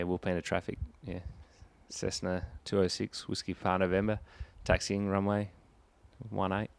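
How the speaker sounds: measured radio call-out; pilot radio call. Shown as a demonstration. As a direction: read it like a tower call. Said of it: "Give us the takeoff chat".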